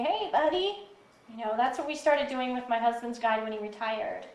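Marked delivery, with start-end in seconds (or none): 0.0-0.9 calm greeting. Shown as a demonstration. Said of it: "very calmly".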